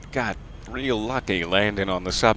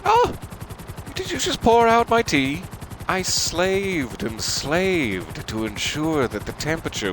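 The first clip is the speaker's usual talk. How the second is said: offended host. Acted. Tea host scolding the guest, mock offended. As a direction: ham up the wounded pride over tea.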